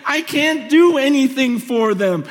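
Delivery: impassioned retold plea, pitched high; begging God. Young believer begging God to save his friends, pleading re-enactment. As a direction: plead urgently, re-enacting a desperate prayer. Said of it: "just weeping and just begging God".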